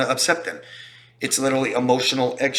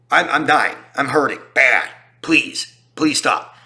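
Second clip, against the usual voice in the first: louder pained begging; mock pleading; 4 dB louder, slower than usual. Hurt partner to abuser, mock pained begging. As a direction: plead to make it stop, hammed-up.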